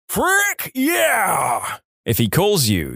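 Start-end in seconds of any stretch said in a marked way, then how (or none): 0.1-1.8 high, exuberant imitated shout; exuberant mock yell. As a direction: announce yourself high and rowdy. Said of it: "with an exuberant".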